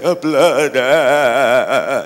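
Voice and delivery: a touch of mock fright at blood; trembling fear. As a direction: gasp at the blood, lightly hammed-up. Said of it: "he starts to tremble".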